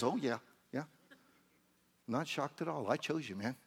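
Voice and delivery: casual, easygoing reassurance; relaxed and matter-of-fact; unshocked reply. Acted. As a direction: answer the panic coolly, in an everyday voice. Plays God's unshocked reply.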